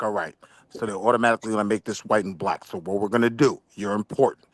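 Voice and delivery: low, put-on white man voice; white guy voice. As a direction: voice a scheming white official, low. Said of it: "It sounded really white for a minute".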